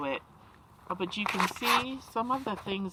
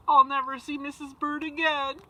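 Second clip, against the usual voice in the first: crying; 5 semitones higher, 4 dB louder than usual. Acted. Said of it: "he cried".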